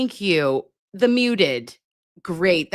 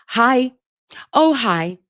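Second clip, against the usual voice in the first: playful greeting; 5 semitones higher, 5 dB louder, slower than usual. Pretend. Playful nurse self-introduction.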